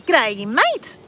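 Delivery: a hint of strangled Ocker "G'day, mate."; mock Ocker. Mocking her own Ocker voice, strained. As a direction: squeeze out "G'day, mate." tight and high. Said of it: "bugging on like I did".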